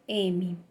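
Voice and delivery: M as a hummed mmm, not its name; letter sound. Shown as a demonstration. Teacher models the letter sound to children, hummed mmm. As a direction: hum the M sound with closed lips. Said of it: "O sonzinho M".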